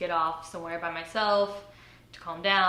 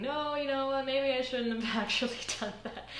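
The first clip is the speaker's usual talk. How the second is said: second thoughts; 7 semitones higher than usual. Retold or imitated. Voices her second thoughts.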